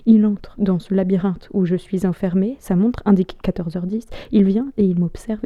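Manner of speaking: halting stage monologue with long pauses; spoken-word recital, letting each image hang; dramatic monologue. Acted. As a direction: perform it as a brooding theatrical soliloquy.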